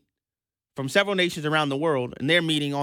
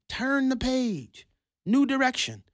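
drawn-out slogan; 6 semitones higher, slower than usual. Retold or imitated. Mocking campaign slogan.

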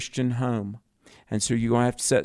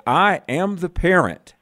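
higher and louder, full conviction; firm and emphatic; 6 semitones higher, 4 dB louder than usual. Shown as a demonstration. Host pressing a caller to declare authority, firmly. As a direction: say it like you mean it. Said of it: "Say it like you mean it".

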